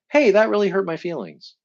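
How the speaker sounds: demonstrating telling someone they hurt you; direct and honest. Shown as a demonstration. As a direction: say it plainly and leave it. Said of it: "maybe just say directly to them".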